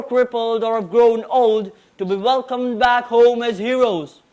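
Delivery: formal declamation; prim precise elocution. Acted. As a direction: deliver it like a stage oration. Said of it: "present a declamation on Alexander the Great".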